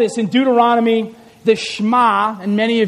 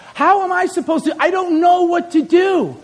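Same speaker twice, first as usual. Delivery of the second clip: higher-pitched, mildly helpless protest; overwhelmed parent; 5 semitones higher than usual. Acted. Parent telling the pastor they feel inadequate, mildly overwhelmed. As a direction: imitate a parent at a loss. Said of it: "I am so inadequate".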